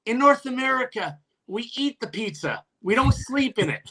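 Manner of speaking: high, spelled-out taunt; mock calling out. Player chirping an opponent from the bench, high mock heckle.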